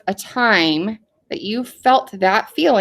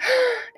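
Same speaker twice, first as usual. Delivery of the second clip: demonstrated gasp of excitement; quick excited intake of breath; 14 semitones higher, 4 dB quieter than usual. Shown as a demonstration. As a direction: gasp as if thrilled. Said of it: "sometimes we make a sound".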